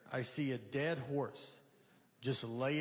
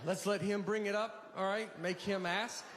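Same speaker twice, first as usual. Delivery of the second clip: scheming friend; 5 semitones higher than usual. Retold or imitated. Friend in the driveway, mock conspiratorial. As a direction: plot it like a sly buddy.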